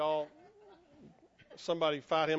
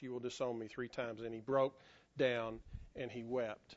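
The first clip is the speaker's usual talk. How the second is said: low, soft, grave telling; hushed and solemn; 6 semitones lower, 5 dB quieter than usual. A narrator's reading. Preacher telling of Peter weeping after denial, hushed. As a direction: drop the voice and let the shame sink in.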